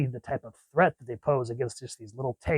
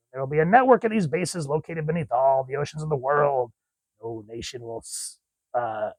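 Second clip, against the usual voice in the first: villain's speech. Acted. Cobra villain addresses his leaders, lightly acted grandiose speech. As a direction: proclaim it to assembled followers, then settle.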